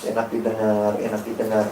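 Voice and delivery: very soft, low cooing; hushed, mock-soporific preaching; lullaby-like soothing. Shown as a demonstration. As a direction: lull the congregation to sleep. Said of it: "dinina-bobokan dengan khotbah".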